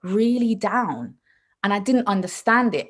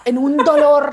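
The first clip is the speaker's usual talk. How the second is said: high, loud mock suffering; hammed-up agony; 7 semitones higher, 9 dB louder than usual. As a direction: wail it theatrically, half laughing. Hams up her labour agony.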